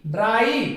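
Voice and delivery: ड्राई with the R sounded after D; R pronounced. Shown as a demonstration. Teacher demonstrates R before a vowel, sounded in ड्राई. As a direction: say ड्राई with a clear R. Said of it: "यहां पे भी आर का उच्चारण होगा".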